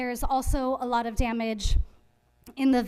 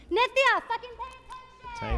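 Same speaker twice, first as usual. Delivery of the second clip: angry outburst; 13 semitones higher than usual. Real, not acted. Scolding an inattentive council member.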